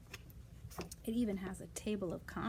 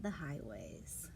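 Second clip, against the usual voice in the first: hushed ending; 6 semitones lower, 8 dB quieter than usual. Acted. Whispered read-aloud ending.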